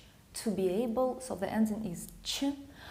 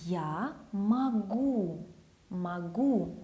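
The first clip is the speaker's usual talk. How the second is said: slow model phrase; much slower than usual. Shown as a demonstration. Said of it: "I can, I am able".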